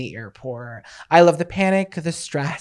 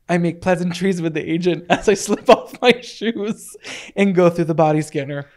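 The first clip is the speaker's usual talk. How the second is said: dramatic monologue reading. Shown as a demonstration. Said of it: "monologue I wrote".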